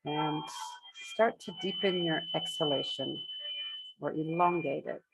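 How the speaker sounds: unhurried meditation guidance with long pauses between phrases; measured phrases, spaced out for breathing; guided meditation. Acted. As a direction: guide the group gently into breath awareness, leaving space after each phrase.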